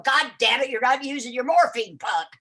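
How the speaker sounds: lightly voiced cranky nurse; crusty old nurse. Old nurse scolding patient over morphine pump, mildly crusty. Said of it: "this old crusty gal".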